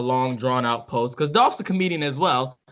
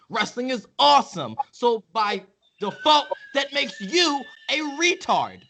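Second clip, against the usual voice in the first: heated rant. Real, not acted. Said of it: "Chris get so pissy".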